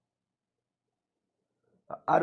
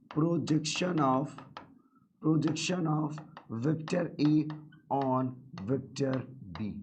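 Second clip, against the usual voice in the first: drawn out word by word for notes; teacher spelling out "projection of" very slowly; slow dictation; much slower than usual. Shown as a demonstration. Teacher dictating the English term to students, very slow. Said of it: "English में बेटा".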